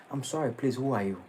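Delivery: calm and soft, unbothered; cool voice. Retold or imitated. Calm questioner facing an angry braggart, cool and soft. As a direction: ask it gently and coolly. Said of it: "with a cool voice".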